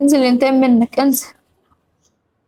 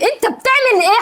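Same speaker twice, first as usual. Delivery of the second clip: higher, sharper "بتعمل" thrown at him; indignant repeat, pitch jumping up on "بتعمل"; raised demand; 6 semitones higher than usual. Real, not acted. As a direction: press the question harder, voice climbing.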